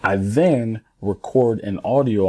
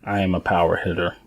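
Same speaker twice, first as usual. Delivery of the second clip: just say it, without meaning it; unconvinced; faster than usual. Shown as a demonstration. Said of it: "You can't just say".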